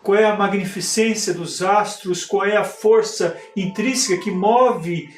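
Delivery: lightly declaimed stage monologue with measured pauses; theatrical monologue. Acted. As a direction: recite it like a poetic soliloquy, pausing between phrases. Performs a theatrical spiritist monologue.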